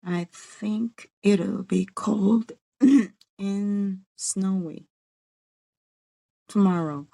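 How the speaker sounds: slow, careful learner, word by word; hesitant slow practice. Real, not acted. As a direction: take it slowly, one word at a time. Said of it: "Let's say it slowly together".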